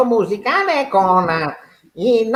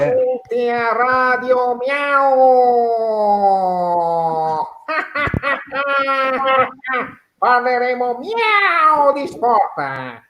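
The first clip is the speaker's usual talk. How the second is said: slow radio host; slower than usual. Acted.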